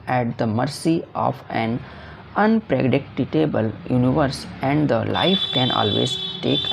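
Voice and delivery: reading the question out slowly and carefully. Shown as a demonstration. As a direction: dictate each English word. Teacher reads the answer aloud. (प्रश्न धीरे-धीरे पढ़कर सुनाना)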